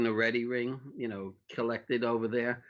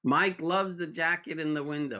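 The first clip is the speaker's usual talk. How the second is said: called out high to the back room; yelling back to staff; 6 semitones higher than usual. Retold or imitated. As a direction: shout it over to the stockroom. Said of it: "he yells back to some other staff".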